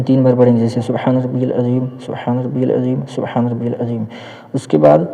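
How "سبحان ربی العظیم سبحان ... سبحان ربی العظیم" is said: hushed tasbih, trailing softer with each repeat; prayer recitation. Shown as a demonstration. Teacher showing the bowing prayer, soft recitation. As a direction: recite it softly, as if praying in ruku.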